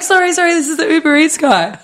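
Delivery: high, giggly apology; laughing through the apology to a startled friend. Retold or imitated. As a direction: apologize while cracking up.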